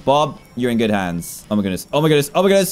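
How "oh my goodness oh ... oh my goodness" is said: each oh my goodness more alarmed; building alarm. Real, not acted. Items flying, repeated exclamation.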